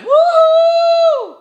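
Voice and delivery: very high cartoon woo; Mario cheer. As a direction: squeal it like a game character. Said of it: "Who's the one that went".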